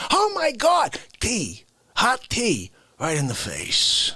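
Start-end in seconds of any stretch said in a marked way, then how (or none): 0.1-2.7 "Oh my God" shrieked high, then "tea" drawn out slowly; hammed-up startled lady; mock shriek. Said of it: "lady says".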